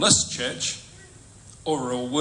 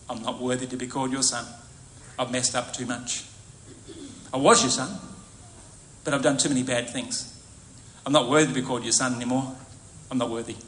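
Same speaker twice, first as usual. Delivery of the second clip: mild humble plea; 4 semitones lower, 4 dB quieter, faster than usual. Acted. Prodigal son voiced in remorse.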